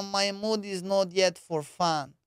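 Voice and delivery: every word slow and even; quoting the girl a second time, slow and flat; slow flat foreign accent again, lightly done. Retold or imitated. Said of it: "she said".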